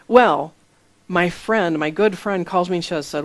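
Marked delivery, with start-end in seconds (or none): none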